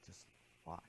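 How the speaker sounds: hushed whisper; inner voice. Retold or imitated. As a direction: whisper a gentle instruction from within. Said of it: "and the voice said".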